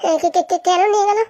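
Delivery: stuttered question, stuck on the first syllable; stammering. Acted. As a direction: stammer repeatedly before the question comes out. Startled question about being taken away.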